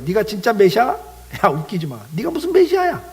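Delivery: jeering crowd, pitch leaping up on the challenge; mocking jeer. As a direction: taunt him in scornful questions. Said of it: "조롱을 해요". (비웃으며 조롱하는 말투)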